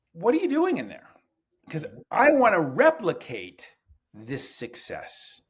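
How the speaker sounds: a boss eager to copy the secret. Retold or imitated. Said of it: "he said".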